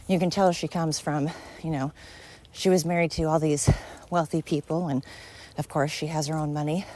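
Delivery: breathless from the steep climb; panting between words while walking uphill; out of breath. Real, not acted. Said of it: "Sorry, I'm really panting".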